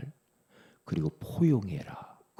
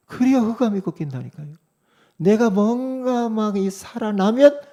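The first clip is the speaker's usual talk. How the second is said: higher, louder insistent preaching; full-force preaching; 12 semitones higher, 10 dB louder than usual. Acted. Pastor driving home dying to self, full-force preaching. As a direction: hammer it home to the crowd.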